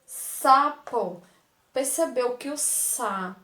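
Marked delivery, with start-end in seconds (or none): 0.0-1.2 "sapo" with a loud, hissed initial S; teacher stresses the S in "sapo" for the class; strong S. Shown as a demonstration. Teacher demonstrating a strong S in "sapo". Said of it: "a pronúncia do S é mais forte".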